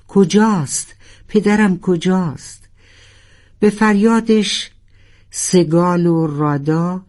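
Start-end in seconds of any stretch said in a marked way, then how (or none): 0.1-2.7 mild shout. Acted. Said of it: "فریاد زد".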